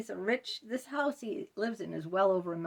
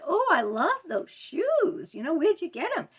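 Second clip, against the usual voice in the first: mocking the therapist; 8 semitones higher, 4 dB louder than usual. Client mimicking her therapist's fawning compliment, mock-gushing and high. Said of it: "saying, like".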